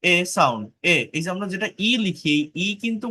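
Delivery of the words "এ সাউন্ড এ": "এ" said as a short open e; short e sound. Shown as a demonstration. Teacher showing the sound of letter e. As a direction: model a short e. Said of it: "এটা short ই".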